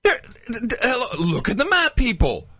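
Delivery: high exasperated disbelief; mock it with exasperation. Real, not acted. Mocking outraged rebuttal.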